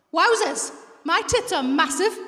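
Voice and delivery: blatant, mock-amazed exclamation; obvious attention-grabbing outburst; unsubtle hint. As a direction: announce it with no subtlety at all. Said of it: "I didn't say they were subtle".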